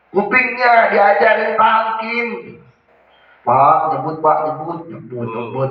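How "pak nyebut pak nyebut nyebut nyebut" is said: low, pressing urge to recite; loud urging. Retold or imitated. Relative urging the dying man to recite. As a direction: repeat the plea insistently at the deathbed. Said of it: "Nggak usah ngomong kayak gitu".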